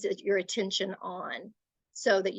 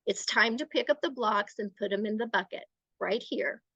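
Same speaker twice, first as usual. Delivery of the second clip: even, matter-of-fact instruction; assertive. Shown as a demonstration. Adult directing a child to tidy blocks, assertive and matter-of-fact. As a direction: tell it as plain fact, no threat. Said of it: "sounds like a statement of fact".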